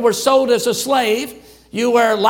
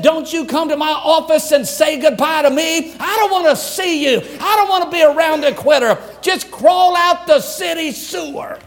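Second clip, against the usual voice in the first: a hint of a stern chancellor, raised high; lightly voiced scolding college head; 5 semitones higher than usual. Chancellor warning homesick students, mildly stern. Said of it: "he said".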